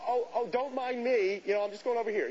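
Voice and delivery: high-pitched mock-casual excuse; acted breezy brush-off. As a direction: play it harmless, pitched well up. Brushes off the puzzled librarian.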